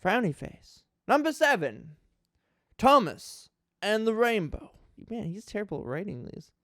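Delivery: mock-earnest read of a ranting fan review; a dramatic reading of someone else's angry episode review. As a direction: perform it straight-faced, like an outraged reviewer. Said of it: "A dramatic reading of a top ten worst Thomas".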